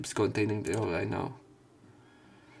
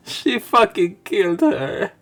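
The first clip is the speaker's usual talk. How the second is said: loud, laughing disbelief; stunned loud outburst; excited yell; 10 semitones higher, 10 dB louder, slower than usual. Real, not acted. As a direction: shout it, still reeling. Reacting to character's violence.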